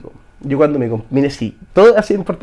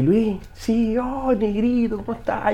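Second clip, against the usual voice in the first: higher, drawn-out delighted greeting; retold fond greeting; 7 semitones higher, 4 dB quieter, slower than usual. Mentor answering his former pupil's message, retold fond greeting. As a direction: imitate a mentor's fond hello, pitched up.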